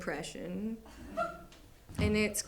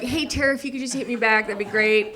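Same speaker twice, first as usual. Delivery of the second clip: thirsty pleading; 3 semitones higher, 6 dB louder, faster than usual. Retold or imitated. Client messages her vanished therapist, mock thirsty and loud. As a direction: pester her for a reply, playing it needy. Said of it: "like a thirsty guy on Tinder".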